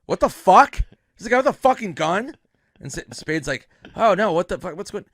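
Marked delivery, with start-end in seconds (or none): 0.0-2.4 loud, high, alarmed demand; Sandler. Retold or imitated. Star in green room hearing of gun, acted alarmed shout. 4.0-5.0 Spade. Retold or imitated. Spade's alarmed reaction retold.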